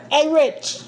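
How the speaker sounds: lightly put-on British accent, teasing; mock British accent. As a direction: say A Rich like a posh Brit, half joking. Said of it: "Look at my British accent".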